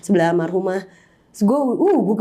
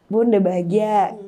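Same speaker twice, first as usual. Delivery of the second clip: "Bun, udah bahagia" said slowly and held steady; steadied slow farewell. Retold or imitated. Daughter to her dead mother again, a slower, steadier goodbye. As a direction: pull the voice back together and say it slowly. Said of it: "shaking tiba-tiba".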